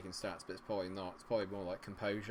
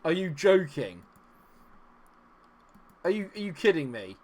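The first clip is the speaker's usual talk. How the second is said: loud, raised, incredulous outburst; angry disbelief; 4 semitones higher, 8 dB louder than usual. Real, not acted. Gamer to his team after a disaster, loud angry disbelief. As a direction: demand it in exasperated outrage. Furious reaction to match going wrong.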